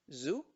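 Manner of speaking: "Zoo" by itself, as in zoológico; first syllable alone. Shown as a demonstration. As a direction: sound out "Zoo" separately, without the M. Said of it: "como de zoológico". ("Zoo" separado, como en zoológico)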